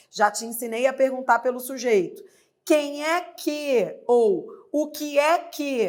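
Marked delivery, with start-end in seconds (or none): 2.6-5.8 slow model question. Shown as a demonstration. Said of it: "É assim que eu pergunto pelo sujeito".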